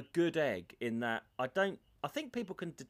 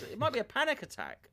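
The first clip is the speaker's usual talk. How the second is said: doctor; 9 semitones higher than usual. Retold or imitated. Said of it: "He goes".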